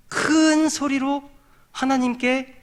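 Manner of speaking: high, slowly stretched words; drawn-out emphasis. Real, not acted. Preacher names the one thing to be done, drawn-out emphasis. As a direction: stretch 큰 long and high, then hold the pitch. Preacher stressing the key phrase.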